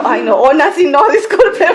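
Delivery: laughing through an embarrassed apology. Retold or imitated. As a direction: giggle out a sheepish sorry. Retold apology while laughing. (disculpa entre risas)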